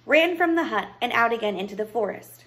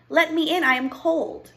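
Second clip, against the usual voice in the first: high, louder princess voice; pleading princess; 7 semitones higher, 4 dB louder than usual. Acted. Lost princess knocks at the hut, pleading. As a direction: call through a closed door, pleading.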